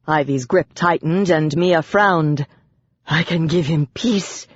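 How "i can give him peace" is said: insist, calm and certain. A narrator's reading. Wife insisting to Ivy she can calm him. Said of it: "she insisted".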